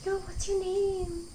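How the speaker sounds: slow, high fan call; excited fan voice. Retold or imitated. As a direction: squeal it like an eager fan. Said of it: "You go".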